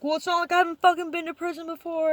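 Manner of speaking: imitating the angry dishwasher; retold defiant retort. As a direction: toss it back mockingly.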